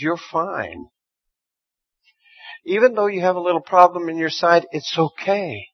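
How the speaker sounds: calm him down gently; reassuring God. Retold or imitated. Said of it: "He says".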